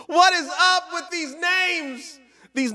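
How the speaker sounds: high, slow disbelief; can't believe these names; incredulous. Real, not acted. Streamer baffled by viewers' names, high and slow.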